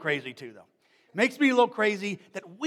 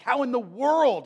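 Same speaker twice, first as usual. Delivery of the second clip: loud, higher, scolding outburst; taking to task; 3 semitones higher, 7 dB louder than usual. Retold or imitated. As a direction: demand an answer sharply. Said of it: "he took him to task".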